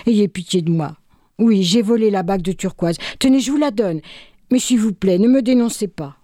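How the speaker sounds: voleur qui supplie, plus haut; suppliant. Acted. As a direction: implorer qu'on ne le dénonce pas, voix plus haute. (supplication, voix plus aiguë)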